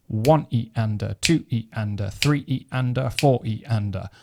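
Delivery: "One", "two", "three", "four" stressed over "E and a"; stress on the beat. Shown as a demonstration. Teacher counting sixteenth notes, beat numbers emphasised. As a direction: count evenly, leaning on each number before "E and a". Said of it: "emphasis point naturally on the beat".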